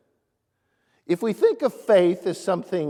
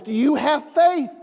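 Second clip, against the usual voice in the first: voice from the sky; 9 semitones higher, 5 dB louder than usual. Retold or imitated. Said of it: "the voice out of the sky says".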